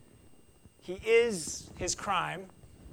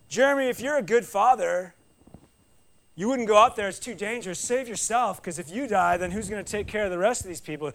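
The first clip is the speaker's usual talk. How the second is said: loud pleading calls, pitched up; urging shout; 3 semitones higher, 4 dB louder than usual. Retold or imitated. Bystanders yelling at the father to stay back, loud and insistent. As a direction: shout him down from the rescue.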